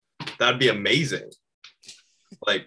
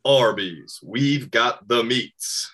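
slow mock commercial voiceover on the meats; ad announcer voice; much slower than usual. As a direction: savour each word like a TV ad. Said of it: "maybe I'll just do this".

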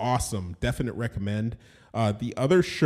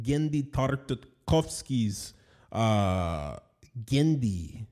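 a hint of a mock Russian accent; half-hearted slow Russian accent; bad Russian accent; much slower than usual. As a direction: lightly put on a Russian accent, slowly. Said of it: "Don't cancel me for that bad Russian accent".

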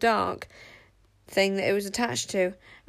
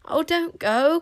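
high, loud plea; crying out; 8 semitones higher, 4 dB louder, slower than usual. A narrator's reading. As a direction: beg her not to leave. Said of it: "cried Wish".

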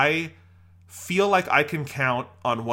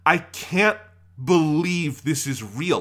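disbelief; 4 semitones higher, 3 dB louder, slower than usual. Retold or imitated. Retelling astonished text to friend.

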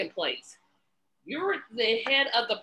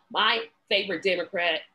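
dry, lower-pitched sarcasm; sarcastic; 4 semitones lower than usual. Real, not acted. Commentator naming a disliked senator as a favorite, sarcastically. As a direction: say it as mock praise, dropping the pitch. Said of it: "I'm saying that sarcastically".

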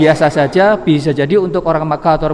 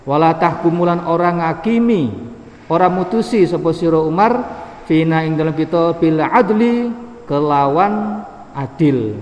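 traditional Javanese-Arabic study reading; kitab gloss reading; 3 semitones higher than usual. Acted. Reads Arabic text with Javanese gloss.

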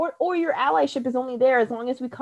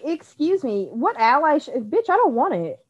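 higher, indignant excuse me; playing the offended friend, slow and sassy; sassy retort; 5 semitones higher than usual. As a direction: brush off the fake ally with attitude. Mocking fake allies.

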